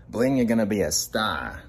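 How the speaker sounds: loud cheering for Bling; excited cheer. Acted. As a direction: pump him up like a fan.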